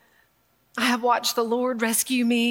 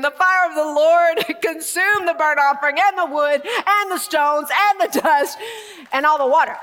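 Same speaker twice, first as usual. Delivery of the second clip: laughing reread; 4 semitones higher, 4 dB louder than usual. Real, not acted. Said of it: "Let's say it again".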